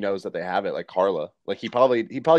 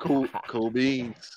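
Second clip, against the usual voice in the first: laid-back; 5 dB quieter, much slower than usual. Retold or imitated. James chilling, unbothered.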